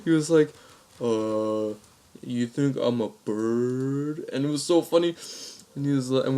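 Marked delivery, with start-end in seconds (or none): 1.0-4.3 very slow, drawn-out disbelief; slow, dumbfounded question; retold baffled reply. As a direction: imitate a puzzled prank victim, dragging it out. Baffled prank victim replies.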